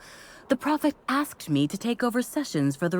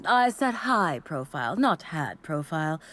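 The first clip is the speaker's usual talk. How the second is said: "high" picked out against a lower "had"; stress on "high"; 3 semitones lower than usual. Acted. Disciple correcting a visitor who misheard, stress on "high". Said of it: "you must have misheard me".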